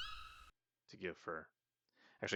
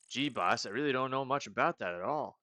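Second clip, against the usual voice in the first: a slightly higher aw-shucks stoner; 5 semitones higher, 6 dB louder than usual. Acted. Meep asked about magic, clueless stoner voice. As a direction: mellow and clueless. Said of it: "like, stoners".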